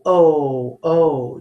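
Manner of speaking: long "oh" repeated; 重复长音"oh". Shown as a demonstration. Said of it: "the one that goes oh".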